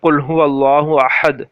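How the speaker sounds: Quranic recitation, slow and measured. Shown as a demonstration. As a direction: recite قل هو اللہ احد slowly and evenly. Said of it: "جس طریقے سے ہم قرآن میں پڑھتے ہیں". (آہستہ تلاوت)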